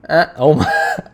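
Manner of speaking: real shock at the blue tongue; surprised. Real, not acted. Notices tongue turned blue.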